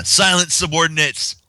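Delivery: quick, half-hearted nod to Luna's royal voice; a hint of a booming princess proclaiming; Luna's Royal Canterlot Voice. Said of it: "lets out that Canterlot lo-, Royal voice".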